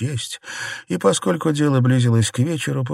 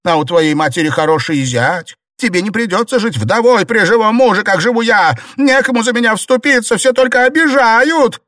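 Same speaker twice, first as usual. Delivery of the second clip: high, loud sneering complaint; sneer, then turn to self-pity; mocking, bitter; 10 semitones higher, 5 dB louder than usual. A narrator's reading. Jingui sneering at Baochai and lamenting, high and loud. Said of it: "насмешливо воскликнула Цзиньгуй".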